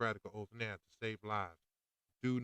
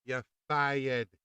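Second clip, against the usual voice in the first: firm firing; 6 dB louder than usual. Shown as a demonstration. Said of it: "You know what you say?".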